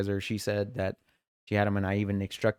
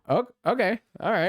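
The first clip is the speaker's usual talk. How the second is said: much higher, louder, disbelieving okay; incredulous okay; 11 semitones higher, 4 dB louder than usual. Retold or imitated. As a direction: sound thrown by someone walking away. Coworker walks off mid-talk.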